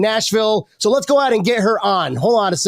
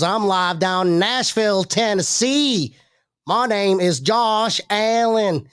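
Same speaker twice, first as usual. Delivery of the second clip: slow, lightly put-on Tennessee drawl as Josh Allen; Tennessee accent; slower than usual. Host playing Josh Allen opens the show, slow mild Tennessee accent. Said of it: "Don't ask me why he's got a Tennessee accent".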